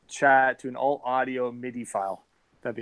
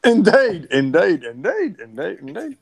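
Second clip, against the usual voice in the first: Charlie Brown teacher voice; 3 dB louder, slower than usual. Pretend. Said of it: "your accented fucking Charlie Brown fucking talk from the teachers".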